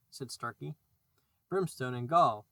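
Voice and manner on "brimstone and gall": a much louder pirate roar; thundering oath. A narrator's reading. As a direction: boom the curse out. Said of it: "thundered Hook".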